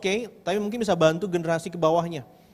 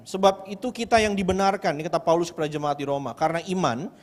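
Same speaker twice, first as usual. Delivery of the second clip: scripture reading; 3 semitones lower than usual. Acted. Reads Bible passage aloud.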